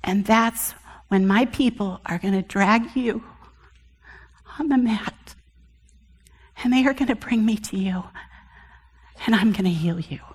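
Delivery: soft, tender promise of healing; a hint of a loving divine voice; lovingly. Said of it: "and very lovingly".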